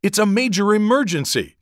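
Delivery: high, loud panicked scream; frantic high yell of a scared girl. A narrator's reading. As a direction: shriek for help down the phone. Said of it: "someone screamed".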